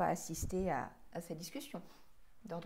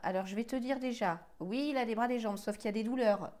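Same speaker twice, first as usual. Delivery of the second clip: louder, talking over the other; insistent; 7 dB louder than usual. Real, not acted. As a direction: push through the interruption with a forceful list. Talking over an objecting partner. (insistant, en haussant la voix)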